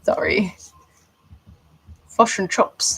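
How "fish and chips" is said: teasing New Zealand vowels, a touch higher; mock New Zealand accent. Australian poking fun at New Zealanders, mock Kiwi accent. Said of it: "that's what we say".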